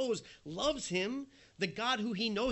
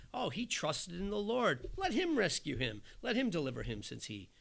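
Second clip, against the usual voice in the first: mocking taunt. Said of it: "they mock him".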